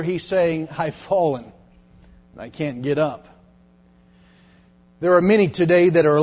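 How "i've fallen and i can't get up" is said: mild lightly voiced elderly plea; famous ad line. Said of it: "in translation of today's vernacular".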